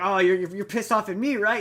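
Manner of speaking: mock prodding for a confession; goading question. Retelling the son baiting the mayor, goading.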